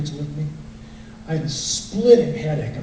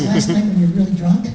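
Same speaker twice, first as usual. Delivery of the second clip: laughing; 4 semitones higher, 4 dB louder than usual. Retold or imitated. Wife's punchline, laughing.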